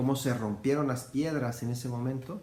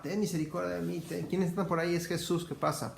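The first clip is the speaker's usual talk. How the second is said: blind man crying out; 5 semitones higher than usual. Retold or imitated. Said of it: "Le gritaba".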